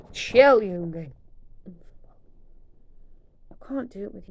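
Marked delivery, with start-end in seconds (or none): 0.1-1.1 laughing scold. Real, not acted.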